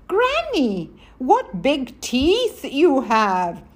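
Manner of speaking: high "Granny", slow wondering question; a hint of a curious child, drawn out; little girl. Girl questions the disguised wolf.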